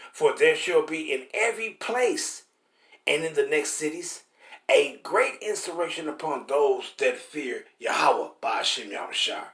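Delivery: slow, weighty reading of the verse; scripture reading. Acted. Preacher reading Ezra to the congregation, slow and solemn. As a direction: read it like holy writ, unhurried.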